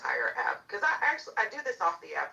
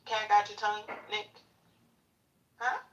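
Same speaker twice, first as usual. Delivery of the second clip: mocking taunt; 4 semitones higher than usual. Real, not acted. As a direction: sneer it out like you've won. Mocking silent heckler.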